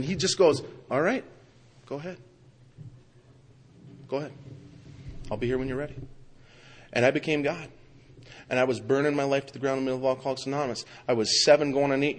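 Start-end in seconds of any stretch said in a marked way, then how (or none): 0.9-5.9 mild, understated go-ahead, with long pauses; gentlemanly God. Retold or imitated. God politely stepping aside for him, gentlemanly and understated. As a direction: voice a patient God stepping back, unhurried. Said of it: "God's a gentleman".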